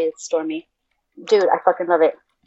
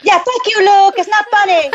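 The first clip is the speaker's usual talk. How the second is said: laughing protest; 11 semitones higher than usual. Real, not acted.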